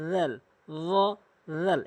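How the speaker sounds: slow রেল, tapped lightly with the tongue tip. Shown as a demonstration. Teacher showing students a slow, light রেল. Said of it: "একদম হালকা করে জিহ্বার আগা থেকে".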